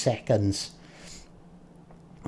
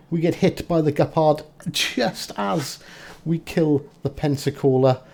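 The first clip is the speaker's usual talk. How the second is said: excited shout; 6 semitones higher than usual. Real, not acted. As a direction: call it out in a rush. Hit at the final moment.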